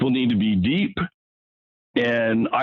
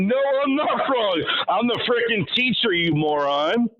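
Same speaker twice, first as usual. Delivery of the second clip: exasperated teacher; 5 semitones higher than usual. Retold or imitated. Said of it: "He went".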